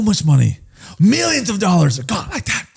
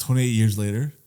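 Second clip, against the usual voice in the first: dramatic title read; 7 semitones lower, 5 dB quieter than usual. Real, not acted. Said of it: "Why'd you say that?".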